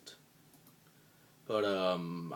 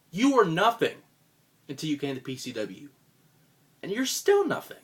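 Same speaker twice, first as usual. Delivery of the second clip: scornful shout; 3 dB louder than usual. Acted. Scornful promo rant at rival.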